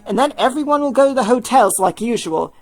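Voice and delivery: Tim voiced. Tim briefing David on the call, lightly voiced. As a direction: manager laying out the plan.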